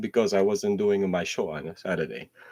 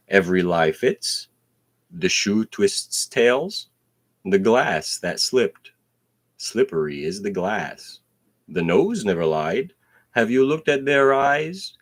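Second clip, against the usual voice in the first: punchy spoken-word delivery; spoken-word poem; 4 dB louder than usual. Pretend. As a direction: declaim each line like slam poetry.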